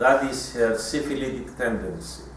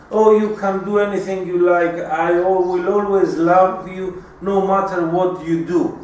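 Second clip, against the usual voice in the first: louder, higher, falsely doting mother; mock-loving mother; 4 semitones higher, 3 dB louder than usual. A crying mother granting her son freedom, falsely sweet and louder. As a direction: gush love you don't mean. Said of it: "and starts crying".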